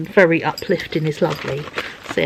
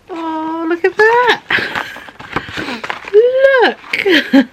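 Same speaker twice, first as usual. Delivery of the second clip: excited; 12 semitones higher, much slower than usual. Real, not acted. Excited at parcel contents.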